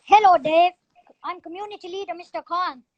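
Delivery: lightly voiced community leader, loud on the greeting; Mister Khan impression. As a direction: announce yourself in character, big hello first. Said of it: "I want you to do the impression".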